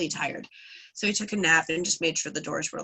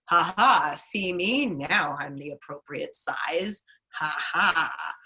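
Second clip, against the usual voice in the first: gloating spider; slower than usual. Retold or imitated. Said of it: "walked into town going".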